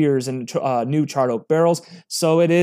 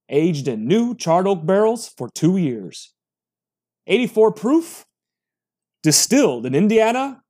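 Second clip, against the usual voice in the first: big booming announcer voice. Shown as a demonstration. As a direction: read it like a movie trailer announcer. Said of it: "the big man voice or, uh, you know, announcer voice".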